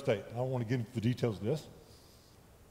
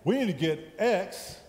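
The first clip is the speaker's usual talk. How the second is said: eager church staff; 5 semitones higher than usual. Retold or imitated. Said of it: "everybody was coming to him and saying".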